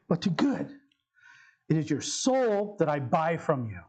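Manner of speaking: measured, deliberate recitation with long pauses; dramatic quote read with weighty pauses; solemn story reading. Acted. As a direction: pronounce it gravely, phrase by phrase.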